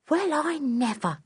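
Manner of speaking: put-on high, excited cockney circus boy; a lad who can't believe his luck; startled Nobby. Nobby marvels to himself.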